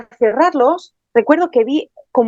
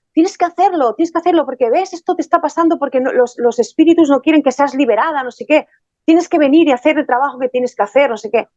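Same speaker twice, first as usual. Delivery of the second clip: higher, pushy mock demand; imitating his annoyed insistence; retold angry man; 4 semitones higher than usual. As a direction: she quotes him demanding she do the paid ritual. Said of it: "Se enfadó".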